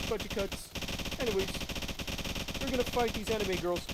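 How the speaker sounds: put-on high anime girl voice; cute anime girl chatter.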